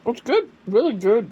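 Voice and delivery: high, loud delighted praise; excited. Real, not acted. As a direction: gush about the taste. Excited food reaction.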